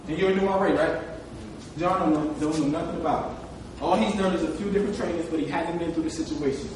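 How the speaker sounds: low, soft aside about John; hushed tease. Real, not acted. Speaker teasing new RA, low and quiet. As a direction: lean in and drop the voice.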